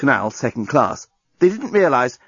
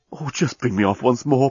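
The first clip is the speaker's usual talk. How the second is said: mild needy entreaty; pleading. Acted. Alien begging Lucy, mildly pleading. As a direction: beg with understated longing. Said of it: "pleaded the journalist".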